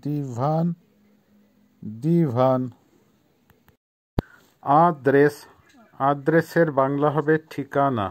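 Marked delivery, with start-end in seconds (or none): 0.0-2.7 দিভান drawn out in two parts, দি then ভান; careful, stretched দিভান, set apart by pauses; model pronunciation of দিভান. Shown as a demonstration. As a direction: say দিভান slowly for learners to copy. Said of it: "উচ্চারণ হবে, আবারও বলছি".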